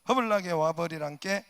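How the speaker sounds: hearty Jeolla call to come; loud Jeolla welcome; Jeolla dialect. Shown as a demonstration. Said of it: "전라도".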